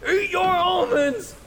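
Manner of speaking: high strained shouting, stretched out; mock panicked shout, very high and slow; frantic dad. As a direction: yell at her like a desperate father, way up high. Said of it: "Graham said something like".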